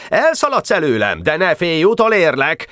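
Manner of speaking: high, taunting call; shouted threat. A narrator's reading. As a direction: call threats after a fleeing rival, high. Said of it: "kiáltott rá". (magas hangú, fenyegető kiáltás)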